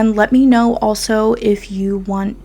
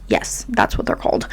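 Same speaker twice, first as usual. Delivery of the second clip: whispered aside; 5 dB quieter than usual. Real, not acted. Whispered aside correcting herself.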